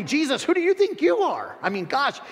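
mild mock outrage of a religious critic. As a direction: sneer down at Jesus. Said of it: "Or, or secondly".

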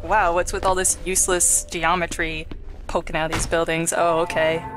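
ordinary talk, nothing marked

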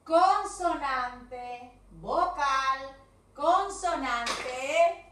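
loud, slow drilled rule; loud teacher chant, every word stretched; emphatic rule drill. Shown as a demonstration. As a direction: hammer each term out slowly. Teacher drills the spelling rule loudly.

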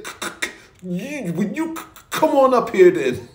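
stammering on the c, half-swallowed; stuttering. Retold or imitated. Pete stuttering back at Alan downstairs, upset stammer. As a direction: stutter out a nervous dare. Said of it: "Pete was just, just saying".

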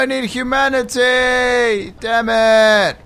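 high, slow, drawn-out wail; whining, high-pitched despair; anguished wail. Real, not acted. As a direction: stretch it into a long cry of frustration. Upset at losing the game session.

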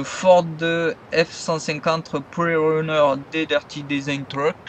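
slow, self-mocking French-accented English car name; stumbling French take on English words; clumsy English accent. Real, not acted. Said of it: "avec mon super accent de merde".

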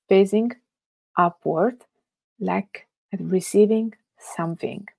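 unhurried instructions with long pauses; guided meditation. Acted. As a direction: guide them phrase by phrase into stillness. Guides a Yoga Nidra meditation.

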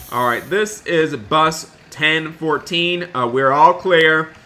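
slow radio check-in; radio call. Pretend. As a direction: talk into the bus radio. Radio call as bus driver.

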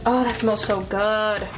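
ordinary talk, nothing marked

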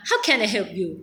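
English said with a light Thai accent; Thai-accented English, lightly done. Shown as a demonstration. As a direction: say it the way a Thai learner would, a touch slow. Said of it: "แต่ว่าฝรั่งเนี่ย ได้ยินเนาะ".

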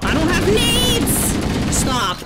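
high, loud protest, last line dragged out slowly; frantic high cry of complaint; panicked shout. Real, not acted. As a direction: yell it defensively at the attackers. Panicked under fire.

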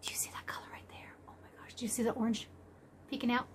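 hushed, voiceless whisper; awed whisper. Real, not acted. Vlogger showing a colour in the yarn, awed whisper. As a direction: whisper it in wonder.

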